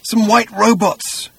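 high, slow strained voice; strained and drawn out, acting a hoarse man; hoarse whisper. A narrator's reading. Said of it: "whispered the man hoarsely".

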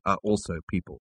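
soft and flat correction; quiet. A narrator's reading. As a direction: say it quietly, matter of fact. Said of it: "said Ford Prefect quietly".

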